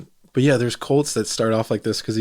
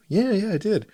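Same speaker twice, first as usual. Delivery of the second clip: eager recruit; 10 semitones higher than usual. Retold or imitated. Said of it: "And then".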